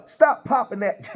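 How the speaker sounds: breaking into laughter mid-line; words cracking with a laugh. Real, not acted. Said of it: "I can't stop laughing".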